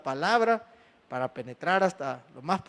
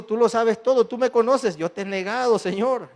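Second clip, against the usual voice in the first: louder, higher earnest plea; pleading confession; 3 semitones higher, 3 dB louder than usual. Acted. Peter pleading with the Lord after denying him, raised voice. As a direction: cry it out as a broken disciple.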